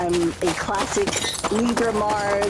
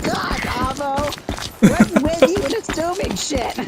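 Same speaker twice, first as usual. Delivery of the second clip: harsh accusation; 8 semitones higher than usual. Shown as a demonstration. Friend demoing how not to confront someone, with a mock harsh snap. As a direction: blurt it out like you're fed up. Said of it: "than being like".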